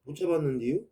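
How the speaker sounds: Chungcheong accent, ending 는데요 as "는디유"; lightly put-on Chungcheong dialect. Shown as a demonstration. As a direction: answer like a Chungcheong local. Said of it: "제 충청도 말로 한번 해".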